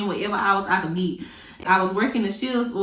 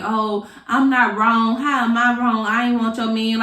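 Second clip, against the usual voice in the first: mock innocent; 3 dB louder than usual. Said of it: "trying to play our innocent".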